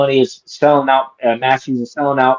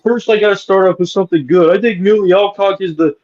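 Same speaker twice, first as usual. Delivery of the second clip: lightly voiced reviewer, a bit higher; mocking impression; 4 semitones higher than usual. Mocking a reviewer who praises the casting, in a lightly put-on voice. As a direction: sneer his fake praise back in a put-on voice. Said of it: "he's like".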